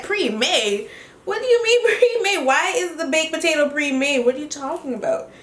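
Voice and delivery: high-pitched, incredulous retort; mock outrage at the waiter; indignant disbelief. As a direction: question it as if it's absurd.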